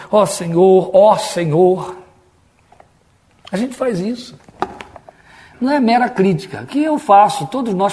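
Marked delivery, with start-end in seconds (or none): 0.1-2.0 drawn-out appeal to the Lord; mock prayer invocation. Preacher showing how we all pray, affected invocation. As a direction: imitate an affected, repeated prayer call. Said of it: "Ou então".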